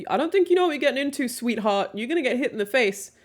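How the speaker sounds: high, loud, patronizing imitation; exaggerated high-pitched naysayer voice; mock condescension. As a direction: mimic a know-it-all warning a naive sweetheart. Imitating condescending people warning her.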